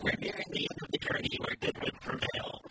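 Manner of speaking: lightly voiced nasal-free nerd impression; a hint of a mock nerd; Conan O'Brien nerd voice. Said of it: "that Conan O'Brien nerd voice".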